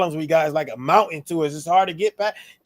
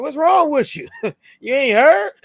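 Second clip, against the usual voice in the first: higher and louder, laughing through it; mock disbelief laughing; 11 semitones higher, 5 dB louder than usual. Acting out ancestors' slang on podcast, laughing high disbelief. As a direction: tease the listener, cracking up. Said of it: "thinking that tone".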